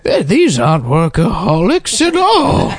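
high, slow, outraged; shocked, calling out slowly; scandalized old-timey voice. Pretend. Mock outraged boss calls Jane.

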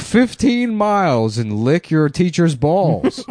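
put-on high, loud grumpy old-timer; cranky old guy lecturing kids; old man voice. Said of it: "old guys would be like".

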